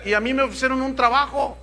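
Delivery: hammed-up anxious mother; desperate widow. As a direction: beg the pastor for an answer. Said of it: "dice otra".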